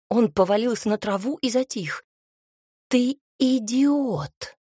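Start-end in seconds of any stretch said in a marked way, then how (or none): 2.9-4.6 slow, higher, louder shocked outburst; stunned, scold him. A narrator's reading. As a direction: heroine in shock at the punch, outraged. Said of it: "пребывая в шоке".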